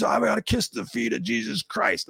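imitating a drunk, high and slow; drunk guy. Drunk marine hailing the bearded teller as Jesus, high slow slur. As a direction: stretch it out, high-pitched and awestruck like a wasted guy. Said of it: "he's really drunk".

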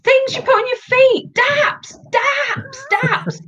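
very high, insistent imitation; mock exasperated explaining. Guest retelling explaining daps to Londoners, high mock exasperation. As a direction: spell it out as if to the clueless.

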